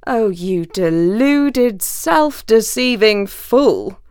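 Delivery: slow, drawn-out jeer. Acted. Fox mocking the trapped wolf, slow jeering. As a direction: savour each insult slowly. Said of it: "jeered the fox".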